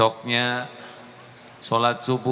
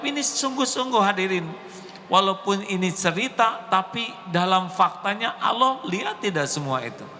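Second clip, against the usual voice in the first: raised preaching voice, questioning; 10 semitones higher than usual. Acted. Preacher challenging the congregation, raised voice. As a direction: press the congregation for an answer.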